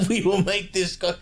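Trump. Pretend. Trying his own after the co-player's, mock Trump voice. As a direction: echo the co-player's hammed-up presidential impression. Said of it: "Well, I'll try mine".

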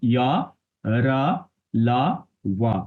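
ইয়া, রা, লা, ওয়া as separate open syllables ending in a; Devanagari letter reading. Shown as a demonstration. Teacher showing what to say, ইয়া, রা, লা, ওয়া each ending in open a. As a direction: recite "ইয়া, রা, লা, ওয়া" one by one. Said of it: "ইয়া অন্তস্ত ইয়া বলবো না".

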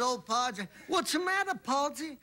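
lightly voiced Southern golfer; Southern accent. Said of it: "He said".

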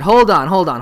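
a hammed-up hold it right there; mock angry. Agent stops the man's act in mock anger. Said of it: "Talent agency gets mad".

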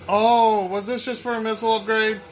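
high, incredulous complaining; exasperated outrage. Real, not acted. Player took a wrong path for an upgrade, exasperated outrage. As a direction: rant in high-pitched disbelief. Discovers a wasted detour, outraged.

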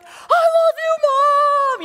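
high, loud holler; kid's yell. Retold or imitated. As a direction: imitate a child shouting it to Mom. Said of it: "turn around and be like".

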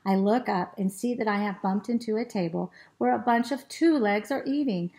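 put-on lively, expressive children's storytelling; animated story reading. A narrator's reading. Teacher reads the dog's adventure to children, animated storytelling. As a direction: read it with big swoops and stretched key words.

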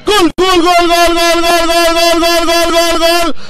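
belting gol over and over, high and loud; long goal shout. Real, not acted. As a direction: scream the goal at full voice. (grito de gol a todo pulmón)

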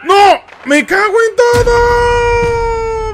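furious shout. Real, not acted. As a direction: scream it out, furious. Player fails the sneak.

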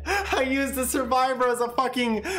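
high shouting broken by laughter; stretched, triumphant laughing yells; gleeful gloating. Real, not acted. Gloating over a juke.

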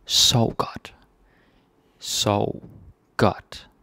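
Sov godt whispered like a goodnight. Shown as a demonstration. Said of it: "goodnight phrase softly".

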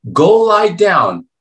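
loud, drawn-out order to go back to bed; impatient command. Retold or imitated. Old priest loudly ordering the boy back to bed. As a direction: bark it like a fed-up old priest.

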